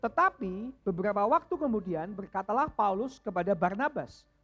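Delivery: loud, measured Bible reading; scripture reading. Acted. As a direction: read the passage to the congregation. Membaca Alkitab. (membaca firman dengan khidmat)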